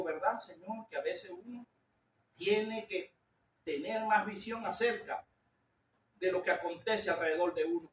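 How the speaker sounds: soft, low musing to God; retold prayer. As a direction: confide quietly, pitch dropped.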